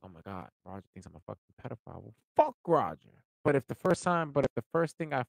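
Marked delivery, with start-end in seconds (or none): 0.0-2.0 soft, quick, fretful muttering to oneself; hushed anxious echo; mock worried. 2.0-3.2 loud, blunt brush-off; loud defiant dismissal. Real, not acted. Dismissing the imagined critic.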